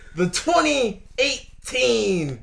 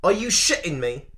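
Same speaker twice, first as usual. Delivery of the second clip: mock Irish accent. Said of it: "that was a little bit British".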